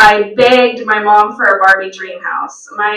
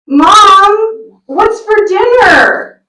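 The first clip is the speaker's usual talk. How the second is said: put-on child voice; 10 semitones higher, slower than usual. Child asks mother.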